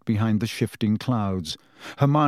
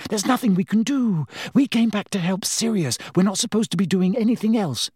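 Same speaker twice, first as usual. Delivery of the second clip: put-on higher, firm and urgent girl's voice; insistent Hermione; 8 semitones higher than usual. A narrator's reading. Hermione insisting to Harry they must not interfere. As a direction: press the point, no arguing.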